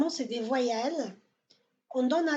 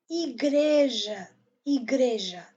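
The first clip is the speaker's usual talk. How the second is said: igreja with GRE drawn out and louder; stressed middle syllable; 4 dB louder than usual. Shown as a demonstration. Teacher models Portuguese igreja for learners, stress on GRE. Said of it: "on donne accent à G R E".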